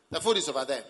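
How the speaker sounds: mildly sharp, grudging reply; negative tone. Acted. Spouse pointing out the food, mildly negative. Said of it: "the tone of voice is negative".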